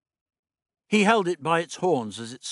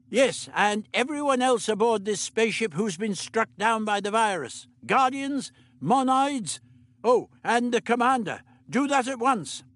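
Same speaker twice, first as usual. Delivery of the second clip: put-on higher, brisk old doctor; 9 semitones higher than usual. The Doctor instructing Meliam, brisk fussy voice.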